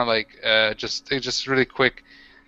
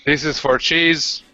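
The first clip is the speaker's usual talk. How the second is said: orc voice; slower than usual. Acted. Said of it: "I'm like".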